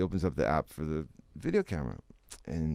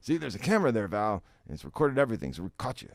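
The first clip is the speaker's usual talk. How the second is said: smug boss; 5 semitones higher, 3 dB louder, faster than usual. Retold or imitated. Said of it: "he points to the big obtrusive camera".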